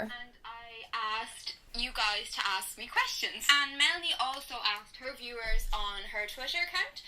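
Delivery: shy and hesitant, held back; nervous old clip voice. Pretend. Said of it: "I can't even talk".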